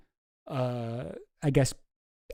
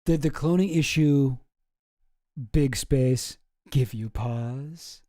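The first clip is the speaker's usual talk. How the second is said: slow dramatic reread; slower than usual. Retold or imitated. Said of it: "rereads the email line slowly".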